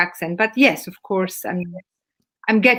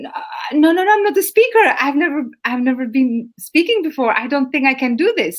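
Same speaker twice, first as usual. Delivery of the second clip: higher-pitched mock refusal; acted protest, high at first then easing; retold protest; 4 semitones higher than usual. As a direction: imitate a reluctant speaker protesting, starting high. Voices women refusing to be speakers.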